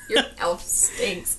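put-on slow whispered kid jeer; mock kid taunt. Kid taunting another kid about their elf, whispered. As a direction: sneer it like a playground kid.

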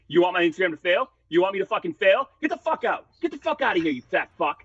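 mock outrage that keeps rising to a shriek, then drops back down; retold furious rant. The host throwing a guest off the show, imitating his furious yelling. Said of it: "he screamed at me".

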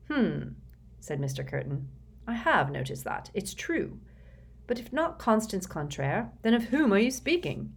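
a suspicious boss pouncing on a name; a self-satisfied executive interrogating the boy; Mister Curtin's voice. Acted. Curtin questions Sticky.

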